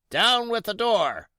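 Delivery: high, loud blind beggar's cry; a blind pirate roaring orders, loud and high; furious cry. Acted. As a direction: bellow the order at the door. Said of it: "he cried".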